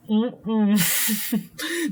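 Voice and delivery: mock "mm-mm" of refusal; closed-mouth hum of disapproval; wordless refusal. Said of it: "I'm like".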